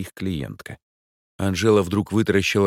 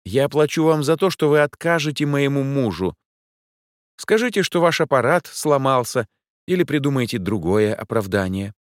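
louder, higher, pushy demand; insistent lady; 8 semitones higher, 5 dB louder than usual. A narrator's reading. The client insists the detectives refuse her husband. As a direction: push them to lie for her. Angela voiced high.

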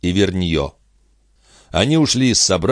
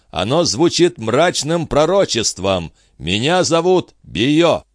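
a stern avenger, high and deliberate; grim prophetic stranger; 8 semitones higher than usual. Acted. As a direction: speak like a prophet of doom to the king. Bio's grim prophecy to king.

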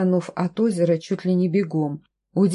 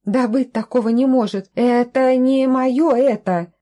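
indignant disbelief; 5 semitones higher, 5 dB louder than usual. A narrator's reading. Heroine rejecting the grey skin, loud and incredulous. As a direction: refuse it in shock.

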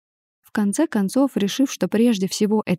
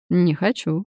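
a hint of a curt male voice; lightly voiced man; 3 semitones lower, slower than usual. A narrator's reading. Artur curtly refuses to apologise, lightly voiced male.

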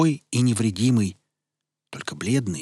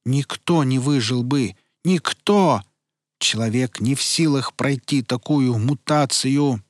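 frantic protest; 3 semitones higher, 4 dB louder than usual. Acted.

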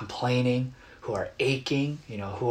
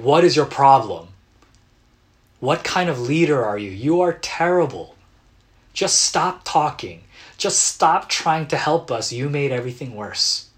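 raised, accusing complaints at the leader; loud, exasperated heckling; mock angry crowd; 3 semitones higher, 7 dB louder than usual. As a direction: rant like a fed-up crowd. Congregation complaining at Moses.

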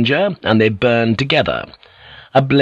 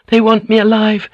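very high, loud frantic shout; wild shout; 12 semitones higher, 4 dB louder than usual. Acted. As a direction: shout it wildly. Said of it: "Mariko shouted wildly".

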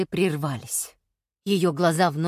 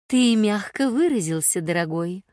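affectionate with a smile; smiling. Acted. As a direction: smile through it, teasing gently. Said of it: "улыбнулась Аррера".

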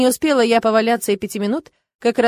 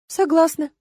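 dry interjection; 8 semitones higher than usual. A narrator's reading. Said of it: "вставила я".

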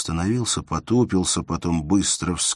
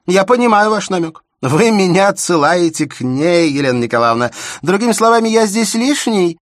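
high, loud, stung retort; unsteady voice; 14 semitones higher, 11 dB louder than usual. A narrator's reading. Shubin stung by Elena's hint about Zoya, unsteady loud voice. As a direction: flare up, voice wavering. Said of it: "начал он неверным голосом".

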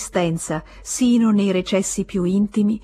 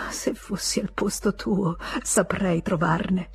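much softer, slow and hushed; whispered; 6 dB quieter, slower than usual. Acted. Emma hinting to Léon he should steal, in a soft hush. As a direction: murmur it like a dangerous suggestion. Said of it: "Lui la sentì bisbigliare".

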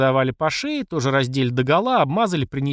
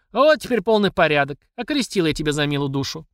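smug satisfaction; 2 semitones higher than usual. Acted. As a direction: savour the victory. Mamasha satisfied.

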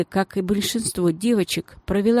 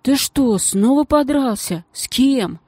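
alarmed questions; 6 semitones higher, 3 dB louder than usual. Acted. Геля тревожно расспрашивает Щура.

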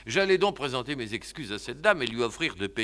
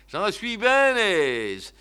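put-on deaf old uncle; 5 semitones higher, 4 dB louder, much slower than usual. Deaf uncle answers beside the point.

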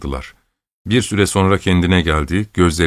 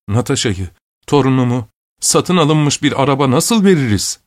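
put-on old prince's indignant shout, pitched up; 6 semitones higher than usual. A narrator's reading. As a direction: roar out the objection. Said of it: "diye bağırdı".

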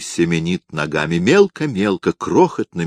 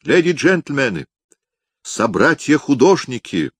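high, loud fairground spiel; loud carnival barker; 7 semitones higher than usual. Acted. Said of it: "в манере ярмарочных зазывал".

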